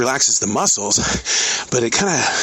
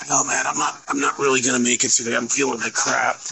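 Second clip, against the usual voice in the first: faked sickly voice. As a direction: play sick on the phone to the new guy, lightly. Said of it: "in my very sickly voice".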